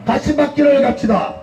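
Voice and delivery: roaring rallying speech. Real, not acted. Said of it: "저는 구호 한번 하겠습니다".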